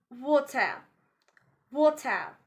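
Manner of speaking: "water" ending in AH with no R. Shown as a demonstration. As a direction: end "water" on an open AH. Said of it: "A H sound instead of pronouncing E".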